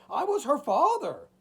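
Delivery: high, loud anguished cry. A narrator's reading. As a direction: cry it out in desperation. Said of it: "cried the old man".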